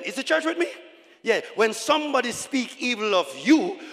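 loud, driving sermon delivery; forceful preaching. Acted. Preacher assuring the church about Holy Ghost power, forceful preaching.

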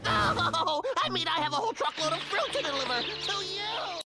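flustered laughing. Acted.

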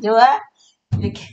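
pleased laugh, then a bright good; laughing praise. Real, not acted. Grandma laughing her praise to the toddler.

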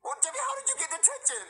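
fed-up father asking; exasperated dad. Acted. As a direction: push up high, demanding an answer. Father demanding, higher.

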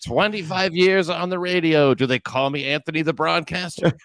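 laughing mock whine. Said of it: "You're like".

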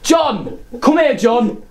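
shouting for son to come; calling out. Retold or imitated. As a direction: call him from across the house.

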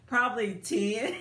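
laughing through the words; breaking into a laugh on the last word. Real, not acted. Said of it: "I'm laughing".

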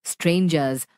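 low, gentle monster voice; kind monster. Acted. Monster reassuring the frightened friends, low and gentle. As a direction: reassure them deep and kindly.

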